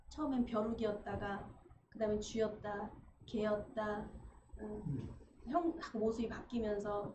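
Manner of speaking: Athena explaining the monster to Heracles; wise Athena. Retold or imitated. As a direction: gently explain like a wise goddess. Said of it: "아테네가요. 나와가지고".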